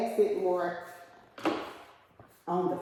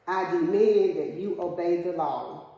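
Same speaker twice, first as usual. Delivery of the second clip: louder, emphatic order with weight on "demand"; firm demand; 5 dB louder than usual. Shown as a demonstration. Teacher giving an example sentence, as a firm demand. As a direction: lay down the law, stressing "demand".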